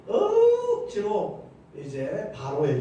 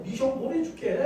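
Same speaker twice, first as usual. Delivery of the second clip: raised-pitch, insistent order; forceful anger; 6 semitones higher than usual. Acted. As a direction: insist with acted exasperation. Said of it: "화를 펑 내면서 아주 강하게".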